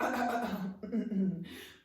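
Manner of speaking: rough clearing that ends in a laugh; throat clearing with a chuckle. Acted. Frog actor clearing his throat again, chuckling. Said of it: "He cleared his throat".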